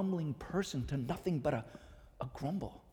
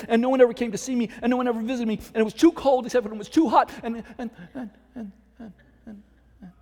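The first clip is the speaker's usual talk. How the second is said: put-on higher, louder, breathless complaining old woman; whining ghost; 6 semitones higher, 6 dB louder than usual. Preacher voicing the ghost, a fussy, nonstop complainer. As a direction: rattle on as a self-pitying ghost who won't stop. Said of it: "when the other says".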